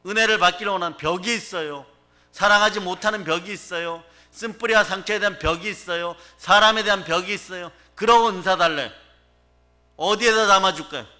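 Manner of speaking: heated sermon delivery; impassioned preaching. Real, not acted. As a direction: press the point home to the congregation. Preacher presses the congregation with exhortation.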